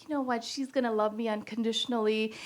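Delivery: put-on soft, hushed to the baby; tender hush. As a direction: coo quietly over the baby. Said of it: "I'm like".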